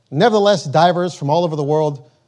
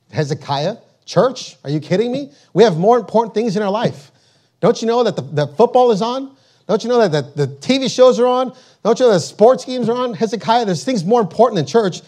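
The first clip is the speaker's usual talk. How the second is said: higher, dismissive scoffer brushing off church; mocking scoffer; 4 semitones higher than usual. Preacher mimics a churchgoer who scoffs at Hezekiah, higher and mocking. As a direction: sneer it like someone who can't be bothered. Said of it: "some people mocked and laughed and ridiculed".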